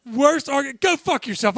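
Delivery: loud, slow disgusted rant; exasperated outburst. Real, not acted. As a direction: shout your disgust slowly. Heated sports argument.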